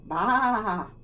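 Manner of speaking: loud bleating "Baa, baa"; goat bleat. Acted. Goat asking the librarian for something to do, bleating. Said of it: "All she heard was".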